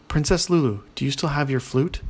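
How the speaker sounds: lightly lifted questioning read; asking. A narrator's reading. Paul asks the princess about her flute, asking. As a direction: ask it with a rising end. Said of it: "Paul asked".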